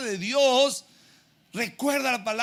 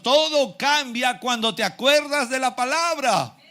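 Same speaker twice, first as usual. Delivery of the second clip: raised, slow, loud proclamation; emphatic preaching climax; 5 semitones higher, 5 dB louder than usual. Real, not acted. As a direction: stretch it out and ring it to the hall.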